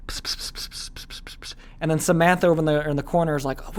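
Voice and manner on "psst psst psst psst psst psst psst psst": breathy psst sounds, barely audible; whispered secret. Retold or imitated. Kid whispering a secret to a friend. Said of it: "then you whisper".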